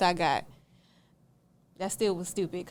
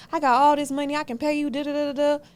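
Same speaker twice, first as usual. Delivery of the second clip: high, loud bragging; boastful mimic; 5 semitones higher, 4 dB louder than usual. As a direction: brag it like she did. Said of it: "mimicking her boasting".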